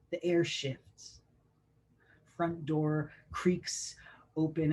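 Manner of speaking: measured spoken-word ending, easing off in force; poem reading. Acted. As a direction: let the poem settle, with pauses between phrases. Poem's quieter closing.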